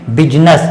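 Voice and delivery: बिजनेस as BIZ-nas, rising end; two crisp syllables in बिजनेस; model for repeating. Shown as a demonstration. Teacher leads students in saying it, model for repeating. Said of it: "आप हमारे साथ बोलेंगे".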